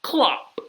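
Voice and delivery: single high, loud clop; horse hoof. Acted. Reader reviews horse feet, sharp clop. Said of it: "He can sound like horse feet".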